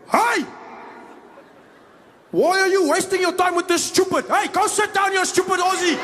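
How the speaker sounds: high, full-throated Afrikaner bellowing; big furious Afrikaans man shouting both passengers down; angry Afrikaans guy. Acted. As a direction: explode at them in a thick Afrikaans accent. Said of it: "there was a big Afrikaans guy".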